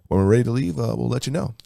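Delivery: a lazy captain telling passengers to wait; pilot voice. Retold or imitated. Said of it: "same stupid fucking pilot voice".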